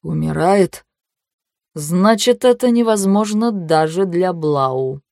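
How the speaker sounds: slow, cheerful cruelty. Acted. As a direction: say it merrily. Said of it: "произносит знакомый голос весело".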